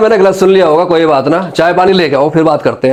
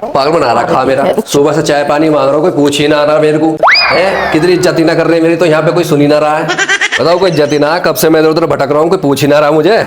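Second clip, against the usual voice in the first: grumbling son-in-law. Acted. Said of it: "कैसे बड़बड़ा रहे हो".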